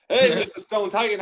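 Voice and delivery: high, loud hail from the truck; calling out. Acted. Trucker hailing a stone titan as he passes, calling out loud. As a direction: holler a cheeky greeting.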